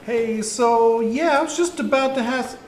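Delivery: high, twitchy goblin voice; nervous little goblin. Acted.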